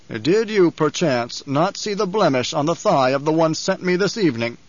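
sarcastic, accusing Baron; menacing Baron. Acted. Baron questioning Nefud about the evening, menacing sarcasm. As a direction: needle the servant with pointed questions.

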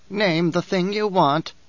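lightly voiced haughty old priestess; a hint of a proud crone sneering at Paul; old Reverend Mother, disdainful.

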